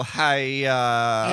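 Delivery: loud, drawn-out kiai; karate yell. Shown as a demonstration. Loud kiai for someone chopping a board in karate class. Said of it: "chop a board in half and go".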